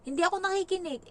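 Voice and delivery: put-on high, quick kid's voice; high cheeky child voice; childish boast. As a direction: confess it like a cheeky kid. Repeat of child's line.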